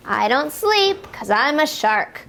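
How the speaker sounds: usual speaking voice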